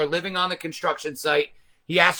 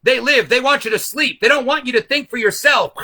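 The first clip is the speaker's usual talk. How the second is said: raised, urgent broadcast voice; hijacked TV broadcast warning; old man on TV; 4 semitones higher, 4 dB louder than usual. Retold or imitated. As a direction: warn them like a crazed old man. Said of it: "there's an old man going".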